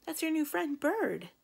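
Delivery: high, singsong introduction; reassuring a pet. Acted. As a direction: introduce a new friend to a dog. Introducing bird to startled dog.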